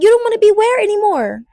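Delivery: high, loud puzzled question; incredulous mom. Retold or imitated. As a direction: imitate a mother who can't believe it. Mom's alarmed question, acted.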